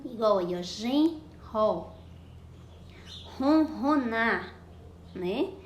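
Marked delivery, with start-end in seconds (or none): 0.6-1.9 "genro" slowly, split into two syllables; strong R demonstration. Shown as a demonstration. 3.4-4.5 "Ronronar" slow and louder, syllable by syllable; strong R demonstration. Shown as a demonstration. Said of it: "o som do R forte no meio da palavra".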